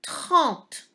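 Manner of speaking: cartes said high and loud, stretched for dictation; named picture word. Shown as a demonstration. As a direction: announce cartes clearly to the class. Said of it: "Ici, le nombre". (mot de dictée, haut et appuyé)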